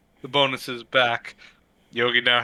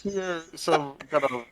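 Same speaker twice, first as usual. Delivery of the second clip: ordinary talk, nothing marked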